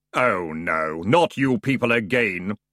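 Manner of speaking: sepulchral dark figure; voice felt, not heard. A narrator's reading. Ferryman dreading the returning Feegles, sepulchral dismay. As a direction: groan it out like Death, dismayed. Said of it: "in a voice that was not so much heard as felt".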